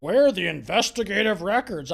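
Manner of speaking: lightly mocking know-it-all tone; mock smart voice. Host mocking a TV anchor's question, light mock smugness. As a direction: parrot the question as if clever. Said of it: "I'm gonna be all smart about this".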